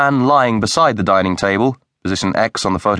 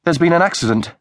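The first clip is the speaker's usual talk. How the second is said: high, shaken voice of disbelief; as if the words barely make sense; stunned shock; 9 semitones higher than usual. Acted. Wife at the window seeing Rose's body, high stunned shock.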